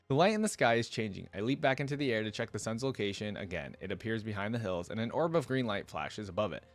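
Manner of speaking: measured first-person storytelling; story narration. A narrator's reading. Hero grumbling to himself about the steps, lightly acted narration. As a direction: read it as the hero's running thoughts.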